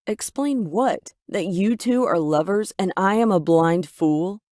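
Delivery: a loud, accusing shout at Mom; angry shout. Acted. Daughter shouting angrily at her mother over Ethan. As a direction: hurl it at her, furious and betrayed. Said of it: "I shouted angrily".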